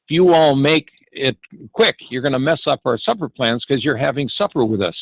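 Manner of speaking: lightly imitated Southern drawl; a hint of a Southern hostess's drawl. Hostess insisting her guests stay for supper, mild Southern drawl. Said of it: "in her southern drawl".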